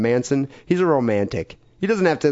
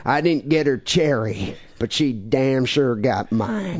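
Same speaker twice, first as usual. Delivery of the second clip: Charles Manson voice; slower than usual. Retold or imitated. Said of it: "I should be doing this in a Manson voice".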